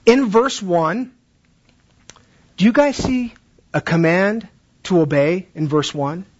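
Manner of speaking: put-on slow, deliberate question to kids; coaxing classroom question; slow teacher question. Shown as a demonstration. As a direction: ask it slowly, like a teacher. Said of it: "And you would say something like this".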